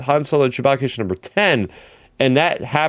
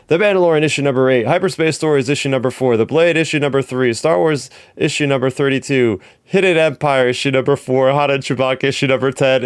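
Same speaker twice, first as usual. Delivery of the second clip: all in one breath. Real, not acted. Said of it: "I'm gonna try to do this in all one breath".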